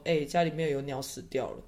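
lightly imitating a sister's scornful tone; a touch of disdain, tossed off; contemptuous tone. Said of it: "她就用很轻蔑的语气说". (带一点轻蔑语气的模仿)

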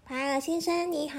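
high, soft little bee voice; friendly bee. Acted. Bee greeting the white goose, high and soft.

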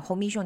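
commission said the Taiwanese loanword way, like "ko-mi-shiong"; Taiwanese pronunciation. Shown as a demonstration. Teacher shows students the local word, commission in Taiwanese pronunciation. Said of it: "台语呢，我讲commission".

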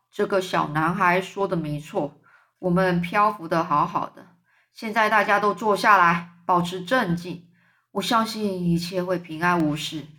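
put-on a wise old insect calming everyone; old grasshopper. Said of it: "绿色老蚱蜢就说话了". (低沉稳重的老蚱蜢)

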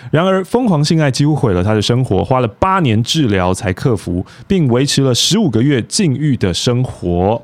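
smooth broadcaster read; news anchor voice. Shown as a demonstration. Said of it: "你声音好好听哦".

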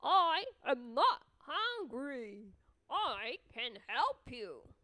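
slow, sly, coaxing voice; sly fox voice. Acted. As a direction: lure him in gently.

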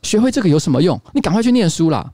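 nagging mom telling off her son, lightly acted; mild mock scolding; mock angry mom. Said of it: "他妈妈很生气的说".

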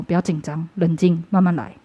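soft, hushed reassurance; quietly calm yourself down; soothing inner voice. Retold or imitated. An inner voice calming the panicked daughter, soft and hushed.

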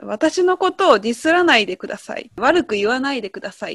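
例文を読み上げるように、はっきりと; 「ディスらないでください」を丁寧に言い切る; example sentence read. Shown as a demonstration. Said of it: "例文を言いますね". (例文として少し声を張って読み上げる)

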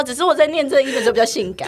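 fast, laughing self-defence; giggling quick retort; laughing excuse. Real, not acted. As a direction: rush it out through giggles.

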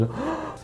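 startled gasp. Retold or imitated. Startled by the taxi.

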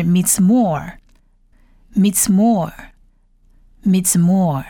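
"Mitzmor" read slowly with long O; blended Hebrew word. Shown as a demonstration. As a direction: model "Mitzmor" slowly, pausing between repeats. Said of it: "整个字合起来就是". (希伯来语拼读，慢读“Mitzmor”)

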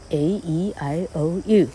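A E I O U recited slowly as letter names; vowel letter names. Shown as a demonstration. Teacher teaching pronunciation rules, A E I O U slowly recited. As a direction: slowly list A E I O U, each a long vowel. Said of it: "它的发音规则就是这样".

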